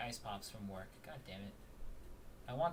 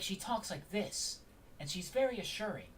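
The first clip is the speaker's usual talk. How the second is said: assuring, with a hint of enthusiasm; enthusiastic Mia voice; 6 semitones higher than usual. Shown as a demonstration. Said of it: "more, like, enthusiastic voice".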